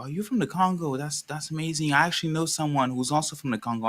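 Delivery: pleasantly amazed, retold; retold excitement. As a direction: imitate an enthusiastic new acquaintance. Retold delighted party guest.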